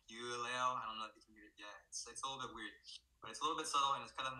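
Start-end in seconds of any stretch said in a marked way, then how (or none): 0.1-0.7 "You leo" with a full "you" vowel; southern Vietnamese take on "You leo"; southern pronunciation. Shown as a demonstration. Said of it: "instead of".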